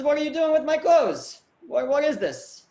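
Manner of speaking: a merchant shocked to see his coachman in his clothes; shocked outburst. Acted. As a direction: catch him red-handed in your clothes.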